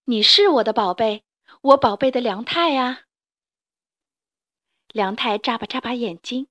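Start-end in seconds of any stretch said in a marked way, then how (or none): 0.1-3.0 tender mother. Acted. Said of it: "妈妈搂着梁太说".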